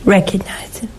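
hushed, breathy urging whisper. Acted. Host urges the viewer to know Jesus, whispered. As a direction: drop to a whisper on "Recognize him".

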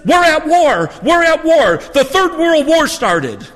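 put-on high excited New England accent shout. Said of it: "He has this wonderful New England accent".

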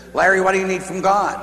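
the nun asking Larry what he needs from God, a light insistent question; persistent nun. Retold or imitated. The nun asks Larry at retreat, lightly insistent. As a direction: ask it kindly but insistently. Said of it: "she was a persistent type nun".

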